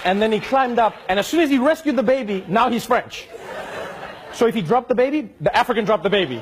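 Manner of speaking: crowd-pleasing punchline, laughing; laughing comic build. Real, not acted. Comic build on baby rescue.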